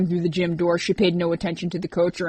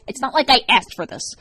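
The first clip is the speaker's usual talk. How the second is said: stern; 6 semitones higher, 6 dB louder than usual. Acted. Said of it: "he said sternly".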